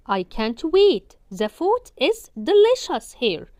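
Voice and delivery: each word drawn out slowly and loud; slow model reading. Shown as a demonstration. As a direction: read it very slowly for learners. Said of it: "modelling full dialogue slowly".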